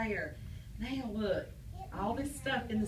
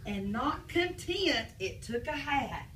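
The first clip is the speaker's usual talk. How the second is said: put-on reading to children; slower than usual. Reading story to kids.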